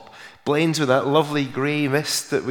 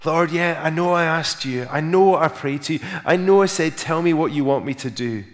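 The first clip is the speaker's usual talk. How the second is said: high, protesting plea to the Lord; acted excuse-making prayer; mock pleading prayer; 4 semitones higher than usual. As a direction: argue with God, pitched up. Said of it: "crying out the same things".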